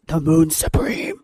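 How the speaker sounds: slow, drawn-out swooning imitation; mock fangirl voice. Co-host mimics friend's male-lead voice, slow mock swoon. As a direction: tease her way of naming a male lead. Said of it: "your voice goes".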